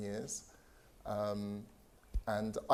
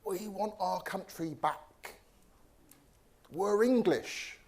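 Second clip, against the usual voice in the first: high, slow mock proclamation; imitating Brexit defenders; 8 semitones higher, 4 dB louder, slower than usual. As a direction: mimic a drawn-out rallying cry, rising in pitch. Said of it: "defending the Brexit decision by saying".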